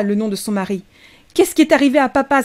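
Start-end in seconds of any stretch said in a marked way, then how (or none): 1.3-2.4 put-on thin, reedy child's cry, louder; high-pitched cry. A narrator's reading. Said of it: "s'écria Rachel. Sa voix était haut perché, aussi grêle qu'un roseau".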